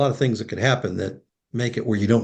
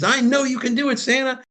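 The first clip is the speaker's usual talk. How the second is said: put-on high, hopeful little boy; little boy's faith. Boy tells Santa he can reach heaven, high hopeful child voice. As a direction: say it with a child's full trust.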